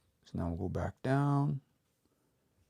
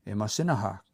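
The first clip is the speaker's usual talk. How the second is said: Imasinaha with the stress moved, one syllable fewer at the end; shifted stress; faster than usual. Shown as a demonstration. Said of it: "Stress changes 'cause we lose".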